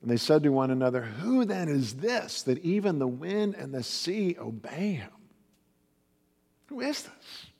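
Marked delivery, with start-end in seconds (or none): 1.0-7.5 awed fear. Acted. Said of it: "the disciples all were filled with fear".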